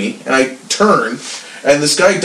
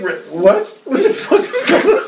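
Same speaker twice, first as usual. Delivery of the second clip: baffled; 8 semitones higher than usual. Retold or imitated. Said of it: "I was just like".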